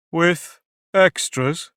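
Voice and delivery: anxious. A narrator's reading. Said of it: "a little anxiously".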